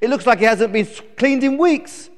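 put-on high, loud bratty baby chick; stroppy high-pitched grumbling; indignant complaining. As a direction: rant at your parents, demanding and put out. Newborn chick scolds its parents.

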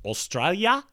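attempted Australian accent. Host trying it on a listener's request, Australian accent. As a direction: try the country's name in an Aussie accent. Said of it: "he wants me to do this accent".

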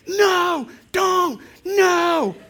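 high loud scream, half laughing; panicked scream. Retold or imitated. Wife screaming at the dog facing the bird, panicked. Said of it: "and Shannon".

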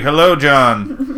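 slow, drawn-out greeting voice; a hint of an announcing machine; automated store greeting. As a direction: lightly imitate a talking store, stretching each word. Imagined store greeting future shopper.

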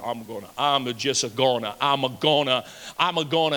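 lightly voiced braggart; mock boaster. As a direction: puff up and stumble over it. Mocking puffed-up boaster.

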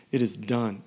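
"done" declared with an exclamation point; exclamatory. Acted. Preacher reading the words from the throne, "done" as an exclamation. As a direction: land firmly on "done". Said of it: "Exclamation point".

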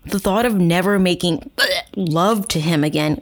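gag partway through reading the line; reading aloud, retching before "love"; gagging. Real, not acted. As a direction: choke on the word love in disgust. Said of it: "why I'm gagging".

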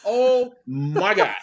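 slow, stunned "oh my God" through a laugh; laughing disbelief. Real, not acted. Telling the podcast host about the strobe lights, laughing in disbelief. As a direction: let the laugh break through the words.

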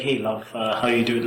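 subtle British accent, casually delivered. Shown as a demonstration. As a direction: greet her in a lightly done British accent. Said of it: "Say it in the accent".

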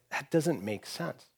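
soft, slow, puzzled murmur; doubtful reaction. Acted. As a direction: quietly voice someone's private doubt. Voicing a doubtful first reaction.

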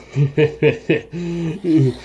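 drawn-out villainous chuckle; creature's mocking laugh. Game master voicing monster laughing at the player's order, menacing chuckle. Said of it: "the thing laughs and goes".

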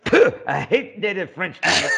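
snooty Frenchman. Acted. Friend mocks the French teacher.

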